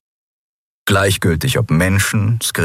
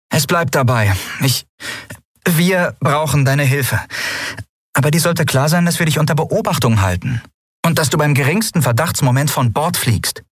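higher-pitched, firm warning; stern captain; 9 semitones higher than usual. A narrator's reading. Captain warns newcomer she will be watched, sternly. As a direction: lay down the terms as captain.

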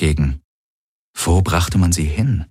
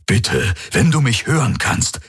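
pleading; 6 semitones higher than usual. A narrator's reading. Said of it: "flehte Hox".

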